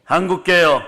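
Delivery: rousing pulpit proclamation; fervent sermon delivery; full-force preaching. Acted. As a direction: preach it out to the congregation.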